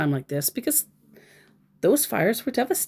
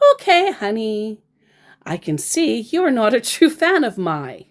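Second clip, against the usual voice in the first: mock British scammer; 4 semitones higher, 3 dB louder than usual. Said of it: "you Brits all talk like this".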